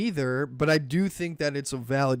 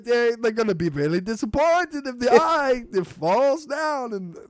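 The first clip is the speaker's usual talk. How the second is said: mock orc grumble; 5 semitones higher than usual. Orc voice complaining.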